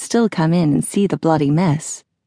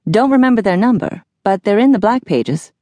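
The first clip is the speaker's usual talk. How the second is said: slightly put-on dude, higher pitch; lightly voiced laid-back Phineas; 5 semitones higher, 3 dB louder than usual. Phineas tells Jack about the number, casual higher dude voice. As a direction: toss it off like a casual bro.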